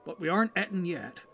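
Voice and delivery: a touch of plucky comfort; homely hobbit servant. Acted. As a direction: buck up a frightened friend.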